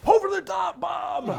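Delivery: hollering a hearty greeting across the street; retold cheerful shout. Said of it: "And he'd go".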